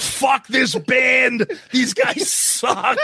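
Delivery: slow, dragged-out mock rant; mock angry fan. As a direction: drag it out like a sulky fan.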